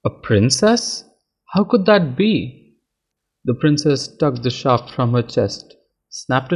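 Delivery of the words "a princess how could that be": stunned disbelief. A narrator's reading. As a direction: ask as if you cannot trust your eyes. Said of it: "Lavanya stared".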